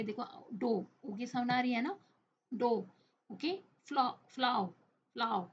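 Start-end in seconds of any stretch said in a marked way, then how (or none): 3.9-5.4 "फ्लाओ" with a clear ao ending; ao-sound demo. Shown as a demonstration. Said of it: "यहाँ पे आओ की sound". ("फ्लाओ" में आओ की आवाज़ साफ़ बोलना)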